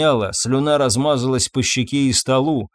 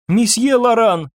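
high, loud call for the master; 9 semitones higher, 4 dB louder than usual. A narrator's reading. Maid shouting to wake her master, loud call. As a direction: shout his name to wake him. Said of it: "кричала служанка".

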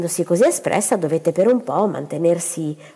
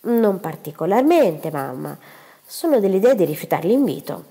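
calm. Acted. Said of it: "rispose calma".

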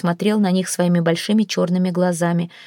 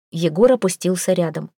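usual speaking voice

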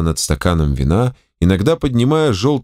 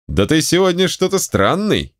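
exclaiming; 8 semitones higher than usual. A narrator's reading. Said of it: "Николай Александрович воскликнул".

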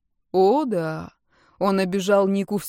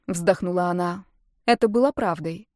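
ordinary delivery

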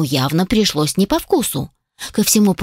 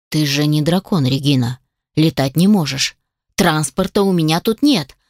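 a touch of dry mockery, slightly lower; mocking; 3 semitones lower than usual. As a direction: gently tease her, understated. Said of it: "насмешливо проговорил Калиб". (лёгкая насмешка, чуть ниже)

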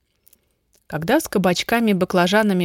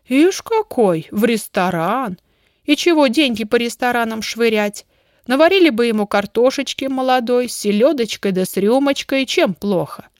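higher-pitched, lightly voiced country woman; grumbling village woman; 4 semitones higher, 4 dB louder than usual. Homely woman scoffing at restaurant dinners, lightly grumbling.

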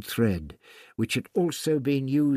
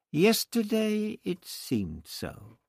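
dry remark; 9 semitones higher, slower than usual. Acted. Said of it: "Tlatoxel remarked dryly".

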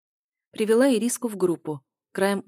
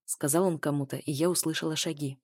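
usual speaking voice

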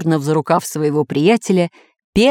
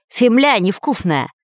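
фемля mumbled through a mouthful of earth; фемля невкусная said with dirt in the mouth; mouth full; 4 semitones higher than usual. Acted. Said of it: "вытаскивая изо рта комья".

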